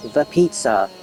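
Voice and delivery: a hint of Starfire's odd phrasing. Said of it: "It's like Starfire from Teen Titans when she goes".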